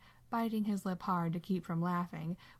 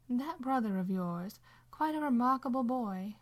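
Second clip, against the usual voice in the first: higher, lightly voiced old woman, hushed; quiet old woman; 5 semitones higher than usual. A narrator's reading. Violet tells Sam about Dean, fond and hushed old lady. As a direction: confide it like a fond secret. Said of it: "Violet says quietly".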